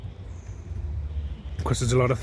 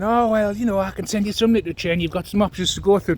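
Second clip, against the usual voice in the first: sugary assistant mocked; 6 semitones higher than usual. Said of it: "she turns up saying".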